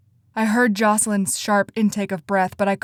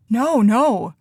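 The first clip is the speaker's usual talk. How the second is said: quick protest; 3 semitones higher, 6 dB louder than usual. A narrator's reading. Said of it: "I said quickly".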